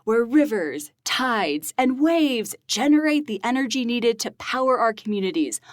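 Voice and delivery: dramatic trailer voice, draw it out; the speaker's announcer voice. Pretend. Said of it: "give it your best movie trailer voice".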